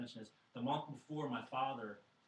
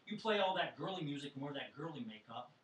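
exasperated retort; 4 semitones higher, 7 dB louder than usual. Retold or imitated. Retelling father's exasperated retort.

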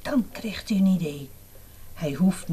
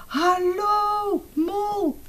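cheerful greeting; 13 semitones higher, much slower than usual. Acted. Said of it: "lacht Konijn".

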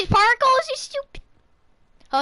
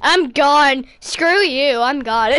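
punchy parting taunt; defiant exit; 3 semitones lower, 4 dB louder, slower than usual. Pretend. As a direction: throw it back as you flee. Fleeing defiantly in the game.

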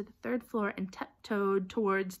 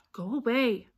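louder, irritated dismissal; fed up and annoyed; exasperated; 3 semitones higher, 5 dB louder than usual. A narrator's reading. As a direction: brush her off crossly. Ron dismissing the nagging Hermione.

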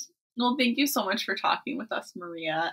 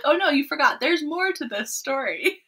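mock pleading reader; 7 semitones higher than usual. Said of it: "be like".

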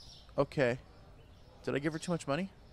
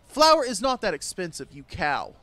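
mock yell; 2 semitones higher, 8 dB louder than usual. Shopkeeper yelling at the customer about flour prices, mock shout. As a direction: bellow it at the customer in mock fury.

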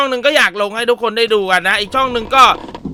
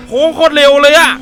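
higher, louder alarmed exclaim; 6 semitones higher, 7 dB louder than usual. Real, not acted. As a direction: blurt it out in alarm. Monster rushing at him.

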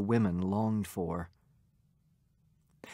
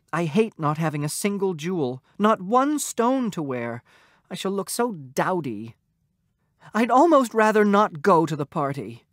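lamenting wife; 6 semitones higher, 4 dB louder than usual. A narrator's reading. Wife laments having no jewels.

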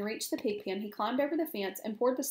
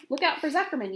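raised, loud gander's yell; excited animal alarm; yelled warning; 5 semitones higher, 5 dB louder than usual. A narrator's reading. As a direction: yell a warning, high and urgent. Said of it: "yelled the gander".

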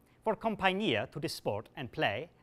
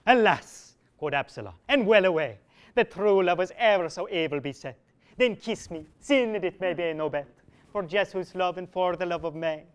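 loud wailing alas then pleading; lovesick lament; 5 dB louder than usual. Acted. Absalom lamenting at the window, then begging a kiss. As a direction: moan and beg for one kiss.

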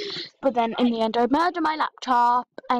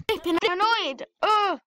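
pitched up, annoyed, ending in a high ugh; fed-up groan; 5 semitones higher than usual. Real, not acted. Losing patience with the laptop, annoyed groan. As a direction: spit out the annoyance then groan. Laptop stuck, she's had enough.

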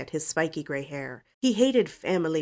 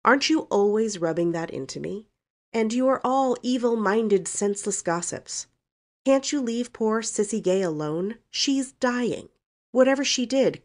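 put-on higher-pitched, indignant young woman; defiant Valancy; 5 semitones higher, 4 dB louder than usual. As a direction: tell the family off, pitched up. Valancy's defiant outburst at relatives.

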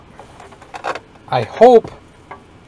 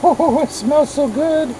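savoring a smell; 13 semitones higher, slower than usual. Real, not acted.

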